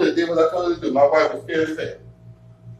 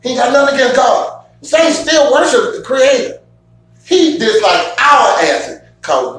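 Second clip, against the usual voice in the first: shouting; 5 semitones higher than usual. Real, not acted. Heated rant about Satan.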